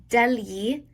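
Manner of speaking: "degli" said DEL-yee, gli as in yeehaw. Shown as a demonstration. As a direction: model "degli" with a yee ending. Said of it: "like yeehaw".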